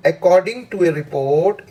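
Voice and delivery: very slow, drawn-out reading of the sentence; very slow dictation. Shown as a demonstration. Teacher reading a test sentence very slowly to students. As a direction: stretch every word for the class. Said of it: "comma के बाद जोर लगाइए".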